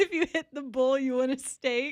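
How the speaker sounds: laughing through the words while talking. Reading favorite movie quotes from notes, laughing while talking. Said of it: "I'm just laughing".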